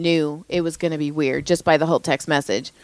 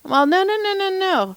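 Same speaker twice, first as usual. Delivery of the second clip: rising higher and higher no's in disbelief; incredulous no; 12 semitones higher than usual. Real, not acted. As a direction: protest in growing disbelief, pitch climbing. Disbelief at a creepy booking.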